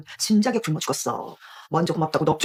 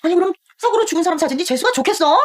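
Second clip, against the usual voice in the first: high, loud sneering retort; scornful retort; 8 semitones higher, 4 dB louder than usual. Acted. Aunt sneering at her niece, loud and high. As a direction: throw it back with contempt. Aunt mocks dead parents' photo.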